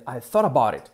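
"thought about it" joined up, tapped T; soft R linking. Shown as a demonstration. Teacher repeats native-style "thought about it", T as soft R. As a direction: glide through "thought about it" like "thora-bourit". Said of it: "en una R suave".

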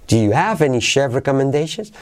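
"have" lifted as the question's accent; stress on have. Shown as a demonstration. Teacher offering another option, stress on have. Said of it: "También podrías hacerlo así".

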